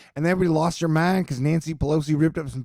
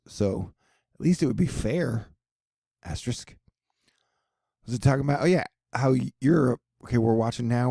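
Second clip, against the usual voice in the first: ordinary talk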